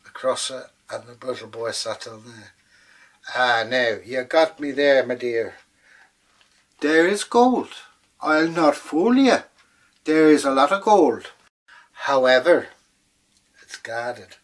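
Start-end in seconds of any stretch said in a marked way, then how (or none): 3.3-14.4 sly leprechaun. Acted. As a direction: confide it slyly, then drop to a hush. Leprechaun admits the gold.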